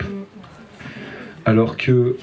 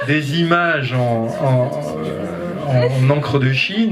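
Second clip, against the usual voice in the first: parle en riant, aigu; 3 semitones higher than usual. Real, not acted. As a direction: rire amusé au souvenir. Laughs recalling teenage catalogues. (en riant de bon cœur)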